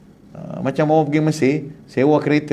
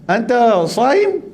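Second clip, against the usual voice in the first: Arab man asking; 6 semitones higher, much slower than usual. Retold or imitated. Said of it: "Arab tanya".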